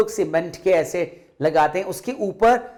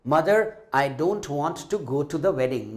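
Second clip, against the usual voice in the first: tearful; 3 semitones lower, much slower than usual. Acted. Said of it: "Neena रोने लगी और रोते-रोते क्या बोली?".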